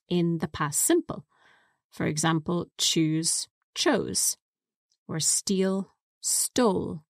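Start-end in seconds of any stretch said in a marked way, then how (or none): 2.8-7.0 chose and stole with a long stretched O; long O demo. Shown as a demonstration. Teacher modelling the long O past forms. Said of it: "the vowel ... changes to a long O".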